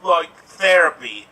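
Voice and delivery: lightly put-on rough British accent; Gary Oldman accent. Introducing himself as a character in an improv monologue, put-on British accent. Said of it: "why I'm doing this accent".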